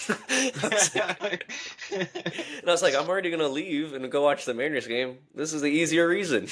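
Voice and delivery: real laughter breaking into the retelling; laughing. Real, not acted. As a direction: giggle while telling it.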